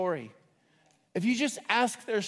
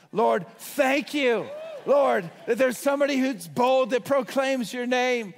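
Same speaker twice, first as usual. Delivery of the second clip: fervent retold prayer; 5 semitones higher, 4 dB louder than usual. Stranger's bold prayer retold.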